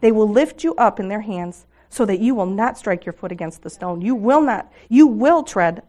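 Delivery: fervent, swelling psalm reading, loud peaks; scripture reading. Acted. Speaker reading Psalm 91 to the women, fervent and swelling. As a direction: proclaim the promises as you read.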